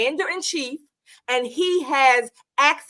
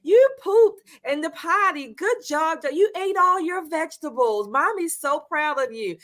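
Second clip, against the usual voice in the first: put-on mother praising toddler; 2 semitones higher than usual. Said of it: "exactly what she was basically saying to him".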